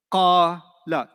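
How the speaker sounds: "Qala" split as long qaa, then short la; two separate syllables. Shown as a demonstration. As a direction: draw out the first syllable of "Qala", pause, add la. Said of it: "Two syllables".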